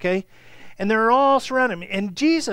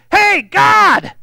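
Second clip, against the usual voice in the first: high, loud shout calling out; interrupting shout; 11 semitones higher, 12 dB louder than usual. Retold or imitated. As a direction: yell it to cut in on the teacher. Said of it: "starts screaming".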